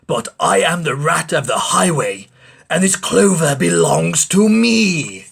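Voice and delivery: boastful robber rat, lightly voiced; a hint of a greedy highwayman rat. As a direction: swagger through the rat's threats. Rat character voice in story.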